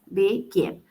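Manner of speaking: "begin" broken into two beats, be, gin; split into syllables. Shown as a demonstration. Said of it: "Y tiene dos sílabas".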